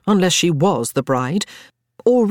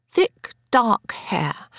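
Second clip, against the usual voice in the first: slow breathy murmur while writing; whisper; 7 semitones higher, much slower than usual. A narrator's reading. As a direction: whisper it as you scribble. Scribbling as she describes.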